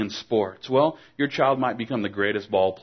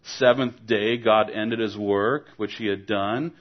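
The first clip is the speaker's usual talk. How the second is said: put-on know-it-all child. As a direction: play the child proud of his answer. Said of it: "and he said".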